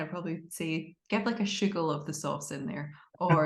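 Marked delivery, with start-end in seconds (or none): 1.1-2.9 put-on light Glaswegian accent; casual Glaswegian kitchen talk. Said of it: "in my Glaswegian accent".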